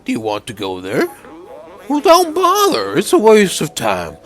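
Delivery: put-on bitter lonely old man voice; a weary old man, giving up. Voices Momo the robot.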